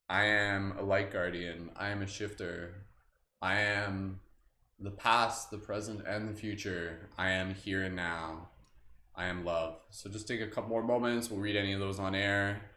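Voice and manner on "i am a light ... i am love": slow, calm affirmations, each one set apart; slow affirmation reading. Acted. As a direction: let each "I am" sink in slowly. Affirmations after calling them in.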